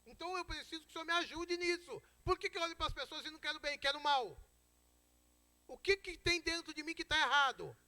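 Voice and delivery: high, urgent appeal to God; pleading prayer. Acted. Believer confessing a problem to God, pleading in prayer. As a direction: plead upward, asking to be changed. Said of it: "Eu preciso pedir pra Deus".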